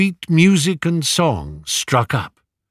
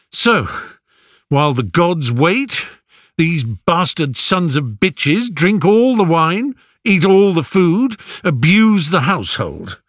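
angry; 5 semitones higher than usual. Acted. Telemachus rails against the suitors.

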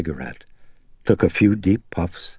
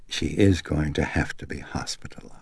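whispering; 2 semitones lower, 6 dB quieter than usual. A narrator's reading. Doctor breaks grave news quietly.

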